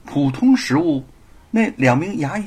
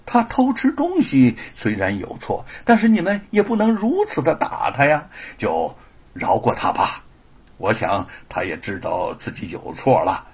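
softened tone. Acted. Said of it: "放缓口气对两个衙役说".

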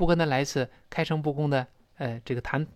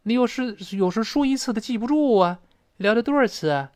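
higher-pitched, concerned questioning; animated, raised-pitch worried query; concerned asking; 6 semitones higher than usual. Acted. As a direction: ask a friend with lively concern. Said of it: "就很关心问了".

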